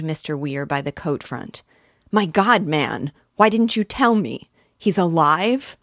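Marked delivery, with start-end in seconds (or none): 2.1-5.8 high, loud, urgent cry; grabbing him, demanding an answer; desperate shout. Acted. Father grabs Weir, desperate.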